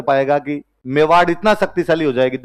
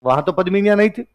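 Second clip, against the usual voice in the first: sceptical questioner; 4 semitones higher than usual. Retold or imitated. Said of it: "फिर कोई कहेगा".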